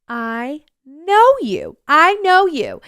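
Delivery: drawn-out, rising to loud high recognition; dawning recognition. Retold or imitated. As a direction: build from slow realization to loud certainty. Acted moment of recognising someone.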